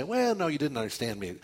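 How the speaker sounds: imitating a mild, hedging objection; back-pedal gently, in mock meekness; mock soft protest. Preacher voicing what Paul doesn't say, mock soft. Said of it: "he's not soft with this accusation".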